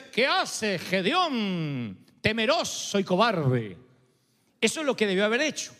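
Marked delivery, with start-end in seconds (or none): 0.0-3.8 mocking greeting. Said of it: "lo que debió haberle dicho es".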